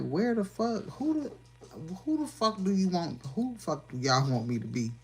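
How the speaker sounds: high, loud frustrated outburst; fed-up shout at people; exasperated demand. Retold or imitated. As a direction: fling the question at them, fed up. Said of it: "I be looking like".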